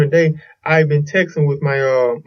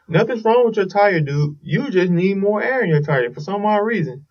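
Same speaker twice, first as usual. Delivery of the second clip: higher-pitched pep talk to oneself; mock self-reassurance; 6 semitones higher than usual. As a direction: talk yourself into believing it's fine. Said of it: "trying to make myself feel better".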